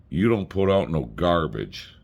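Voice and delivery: slow imitated Southern drawl; retold Southern compliment, stretched out; Southern accent. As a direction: draw it out like a Southern belle. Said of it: "Just the accent alone kills you".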